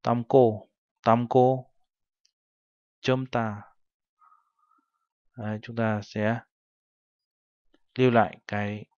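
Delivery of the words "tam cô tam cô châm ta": "cô" and "ta" begun with a tense, unaspirated consonant; tensed consonants. Shown as a demonstration. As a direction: say "Tam cô, châm ta" with only m before a tensed "cô" or "ta". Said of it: "sẽ được đọc thành âm căng".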